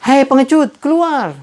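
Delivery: high, loud dare; taunting shout. Retold or imitated. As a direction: call them out. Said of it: "coba lagi berteriak".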